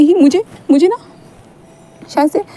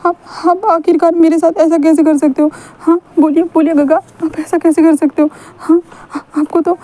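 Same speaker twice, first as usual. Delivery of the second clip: higher, pleading voice close to tears; upset pleading; 4 semitones higher than usual. Acted. Wing pleading with Wang Ji after rejection, upset and high. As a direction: beg him, voice rising in distress.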